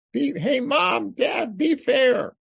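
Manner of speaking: put-on high, slow child's shout of complaint; kid protesting. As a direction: yell it like a kid who thinks his parents are being unfair. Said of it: "you think they're being unfair".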